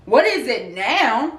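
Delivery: slow, exasperated What is it now; drawn-out annoyed quote. Retold or imitated. Quoting a phrase she can't stand, slow and exasperated. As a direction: stretch out every word, fed up. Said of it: "this one phrase".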